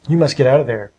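mildly urgent warning; understated cry. A narrator's reading. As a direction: urge them out with a touch of alarm. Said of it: "he cried".

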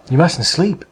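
mild urgent exclamation with lively pitch; understated alarm; exclaiming. A narrator's reading. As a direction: exclaim it as a warning, lightly acted. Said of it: "he exclaimed".

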